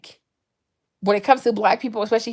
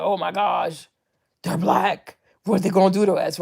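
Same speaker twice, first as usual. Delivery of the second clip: scared; 3 semitones lower than usual. Retold or imitated. White people first meeting Black people, mock scared. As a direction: imitate anxious strangers in a hushed low voice. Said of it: "they're so scared, they're so anxious".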